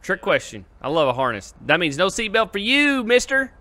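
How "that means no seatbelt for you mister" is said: teasing taunt. Acted. Teasing about seatbelts.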